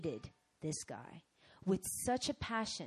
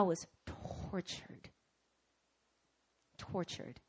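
slow whispered confession; hushed whisper of torment; 6 dB quieter, slower than usual. Real, not acted. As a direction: breathe the words out, haunted. Sermon climax on torment.

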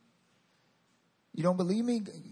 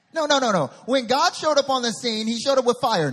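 high, loud preaching burst; emphatic rebuttal; 7 semitones higher, 8 dB louder than usual. Real, not acted. Preacher rejects the soothing version of God, loud and emphatic. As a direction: break in forcefully to correct them.

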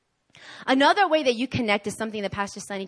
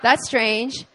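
puzzled laughing; 3 semitones higher, 5 dB louder, slower than usual. Retold or imitated.

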